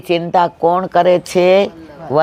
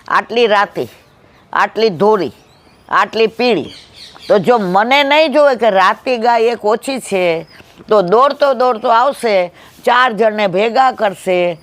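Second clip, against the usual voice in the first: calm cow voice; 2 semitones higher than usual. Acted. Cow explains to the lion.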